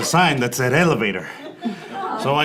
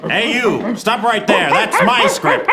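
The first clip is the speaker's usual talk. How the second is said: loud, high shout climbing to a shriek; shouting after thief; 10 semitones higher, 4 dB louder than usual. Acted. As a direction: yell after him to stop. Chasing the gorilla thief.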